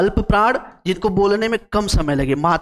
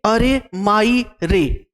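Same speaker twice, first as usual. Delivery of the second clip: "अरे माई रे" slowly, word by word; drawn-out words; much slower than usual. Shown as a demonstration. Teacher pointing out the three-beat vowel, "अरे माई रे" said slowly in separate words. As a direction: space out and lengthen each word of "अरे माई रे". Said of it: "तीन मात्राएं होती हैं".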